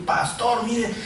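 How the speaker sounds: lightly voiced eager report; a hint of a proud young helper's excitement; proud and happy. Young preacher showing the pastor the new people, mildly excited. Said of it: "yo estaba contento".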